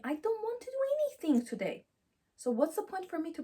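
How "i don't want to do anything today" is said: put-on much higher, whiny little-girl voice; sulky inner child. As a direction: pout it like a tired child who won't budge. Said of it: "sometimes she says to me".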